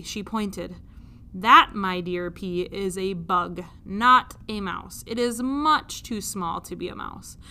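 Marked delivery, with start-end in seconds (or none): 1.3-7.4 lightly voiced king. King correcting his daughter, a hint of lordly patience. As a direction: patiently set her straight. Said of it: "king corrects princess".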